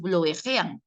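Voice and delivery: BLUEJEAN slowly as "blu-e-je-an"; Spanish spelling reading. Shown as a demonstration. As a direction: read bluejean letter by letter in Spanish. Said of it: "mira cómo lo estás pronunciando".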